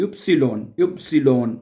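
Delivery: इप्सिलॉन said as "üpsilon", stress on first syllable; इप्सिलॉन spelled out evenly; German Y. Shown as a demonstration. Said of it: "इसको पढ़ेंगे इप्सिलॉन". ("इप्सिलॉन" का उच्चारण)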